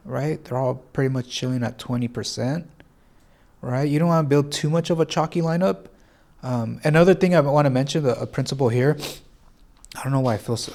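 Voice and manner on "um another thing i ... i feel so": blocked nose. Real, not acted. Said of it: "I sound so congested when I'm talking".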